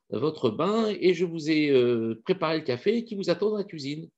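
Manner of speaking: sweet, obliging maid greeting her master; lightly voiced servant. Servant greeting her master in the morning, mildly high and eager. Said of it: "sa servante qui arrive, qui dit".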